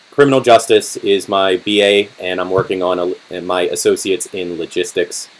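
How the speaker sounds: hoarse, tired voice; losing voice. Real, not acted. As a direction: voice starting to give out. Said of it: "I'm already losing my voice".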